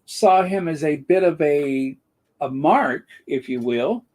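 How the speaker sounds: dry mocking praise; sarcastic. Real, not acted. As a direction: lay the sarcasm on. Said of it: "I'm being sarcastic".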